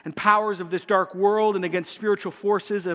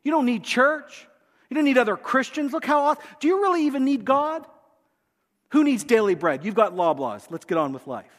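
sweet coaxing, a bit higher; flattering demon voice; 3 semitones higher than usual. Acted. Preacher voicing demons flattering a believer, coaxing. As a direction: flatter them into pride. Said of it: "they whisper the reverse".

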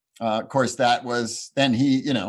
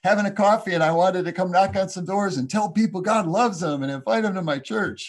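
mock pastor at the door, much higher and louder, over-bright; obnoxious cheery greeter; 9 semitones higher, 5 dB louder than usual. Mocking the pastor who knocked at his door, high loud cheer. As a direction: ham up a pushy doorstep preacher chirping hello. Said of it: "some obnoxious thing like".

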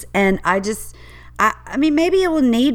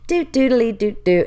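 put-on carefree baby bears. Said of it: "the babies are like".

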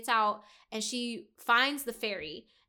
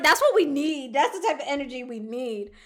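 loud, eager shout of approval; excited cheer; 2 semitones higher, 6 dB louder than usual. Real, not acted. Co-host cheering the fairy sisters' loyalty, excitedly.

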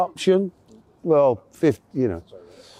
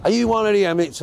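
higher-pitched mock Welsh question; Welsh accent; 6 semitones higher, faster than usual. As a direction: imitate a Welsh prison officer, roughly. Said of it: "in this Welsh voice".

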